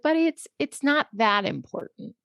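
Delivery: retold gentle letdown to a child; gentle reassurance. Mother to her crying son, gentle reassurance.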